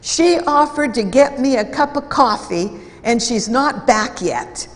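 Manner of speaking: aggrieved complaint. Retold or imitated. Employee complains about the colleague.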